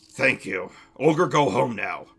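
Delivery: low, simple ogre voice; gruff ogre farewell; grateful ogre. Acted. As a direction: say thanks as a lumbering ogre. Ogre thanks and takes leave.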